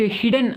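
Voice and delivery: హిడెన్ with a short "i" in the first syllable; pronunciation demo. Shown as a demonstration. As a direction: model హిడెన్ as "hid-en" for learners. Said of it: "అని పలకాలి అనమాట".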